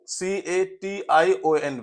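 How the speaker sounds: spelled out. Shown as a demonstration. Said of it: "spelling out the word".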